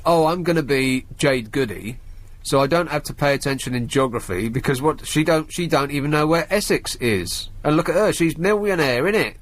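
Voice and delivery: exaggerated Essex accent for a dim wannabe; send-up of a London-Essex accent; mock Jade Goody accent. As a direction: take the mickey in an Essex accent. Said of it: "taking the mickey out of Jane's accent".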